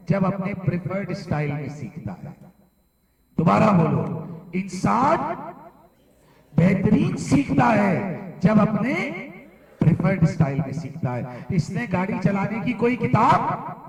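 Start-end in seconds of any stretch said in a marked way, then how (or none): 4.5-8.9 raised voice, pausing for the class to follow; emphatic class drill. Real, not acted. Teacher has class repeat the principle, emphatic. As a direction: lead the class through it, loud and high.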